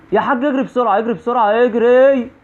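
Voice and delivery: high, urgent cries to run; panicked urging. Real, not acted. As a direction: call out in rising panic. Being chased by the woman in game.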